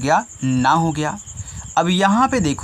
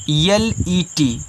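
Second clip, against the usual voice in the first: slow spelling; much slower than usual. Shown as a demonstration. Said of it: "spelling letters for pupils".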